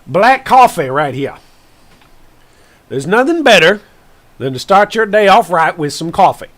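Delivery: a hint of an old Southern farmer greeting the viewers; country farmer accent. Streamer greeting viewers as a folksy Southern farmer, light country accent. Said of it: "I can't do the accent".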